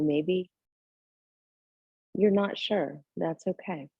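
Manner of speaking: gentle meditation guidance with long pauses; unhurried, settled yoga-teacher voice, leaving space between phrases; guided meditation. Real, not acted. Leads a seated breathing meditation.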